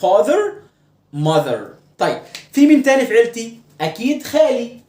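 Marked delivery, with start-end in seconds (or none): 0.0-0.5 father with long "aa", rising higher; distinct vowel. Shown as a demonstration. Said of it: "كل حاجة لها نطق". 1.2-1.6 mother with short "uh", falling; distinct vowel. Shown as a demonstration. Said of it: "كل حاجة لها نطق".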